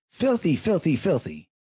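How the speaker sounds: high, squeaky repeat of filthy; emphatic filthy. Real, not acted. Ranting to listeners about the donut thief, high disgusted squeal.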